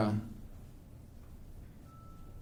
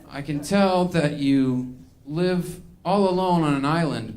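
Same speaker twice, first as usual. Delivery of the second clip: slow mystic voice. Retold or imitated. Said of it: "And then he goes".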